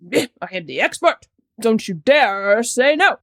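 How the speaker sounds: a hint of a stern doctor laying down the law; mock stern expert. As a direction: play the stern expert who won't take no.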